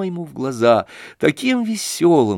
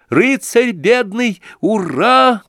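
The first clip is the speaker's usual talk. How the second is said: восторженный выкрик, высоко; крикнуть от восторга; в упоении; 8 semitones higher, 4 dB louder, much slower than usual. A narrator's reading. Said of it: "крикнул в упоении Коля". (Коля кричит в упоении)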